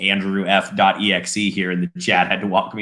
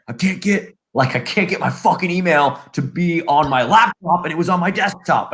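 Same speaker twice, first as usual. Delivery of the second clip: higher-pitched exasperated complaint; pissed-off dad; 5 semitones higher than usual. Retold or imitated. Dad complaining to his child about missing email, pissed off. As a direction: act out a fed-up, cussing father. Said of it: "He was, like, pissed".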